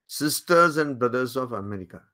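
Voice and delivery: very slow, each word weighed; slow solemn quote. Retold or imitated. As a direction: recite it slowly like a famous opening. Quoting Vivekananda's opening again. (ধীরে, গম্ভীর উদ্ধৃতি)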